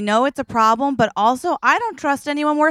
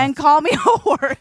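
hammed-up Southern punchline; 4 semitones higher than usual. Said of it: "but let's heighten it".

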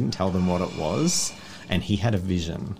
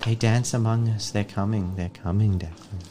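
crazy rambling; 3 semitones higher than usual. Acted. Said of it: "ramble like a crazy person".

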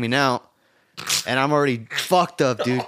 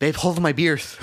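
Mike Tyson voice; slower than usual. Retold or imitated. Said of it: "talking like Mike Tyson".

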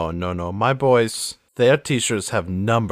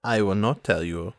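teasing villainess. Acted. Refusing to tell him her secret, coy accented voice. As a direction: scold him playfully in character.

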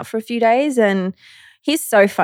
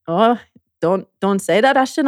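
put-on shaky go at his British accent; tentative mock British accent; attempted British accent. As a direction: imitate a British man's accent, not quite managing it. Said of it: "in his accent".

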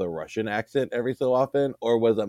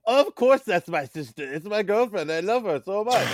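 a lightly voiced, gushing Kurt, higher; 7 semitones higher than usual. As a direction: imitate Kurt doting on his girlfriend, voice raised.

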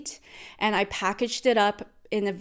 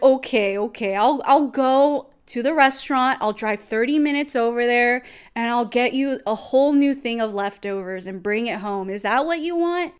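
loud mock giving-in, ending on a high question; sarcastic offer; 3 semitones higher, 4 dB louder than usual. Partner offers to drive thirty minutes, sarcastic. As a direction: imitate an exaggeratedly obliging partner. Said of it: "He started being very sarcastic".

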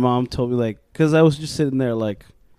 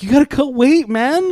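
higher, louder coach pushing; mock coach; 11 semitones higher, 4 dB louder than usual. Coach telling his boxer to cut weight, loud and high. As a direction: bark at him like a boxing coach.

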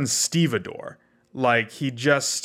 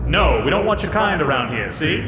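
gangster voice; 2 semitones higher than usual. Acted. Pirate gangster threat.

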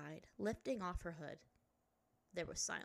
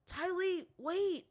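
loud, raised call after someone; shouting; 11 semitones higher, 8 dB louder, much slower than usual. A narrator's reading. Zuko calling after the fleeing princess, urgent shout. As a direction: call out urgently to stop her. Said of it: "Zuko shouted".

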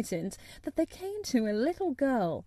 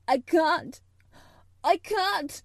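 loud, high desperate wail; gasping and sobbing; 6 semitones higher, 6 dB louder, slower than usual. A narrator's reading. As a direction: cry it out as a hysterical boy. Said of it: "he gasped and sobbed".

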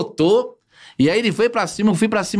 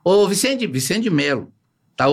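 ordinary talk

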